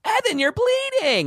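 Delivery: very high, slow alarmed cry; JoJo voice. Retold or imitated. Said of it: "he would do that voice".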